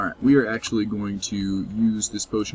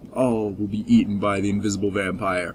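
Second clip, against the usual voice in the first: villain voice; 2 semitones lower than usual. Pretend. Gloating as the vampire.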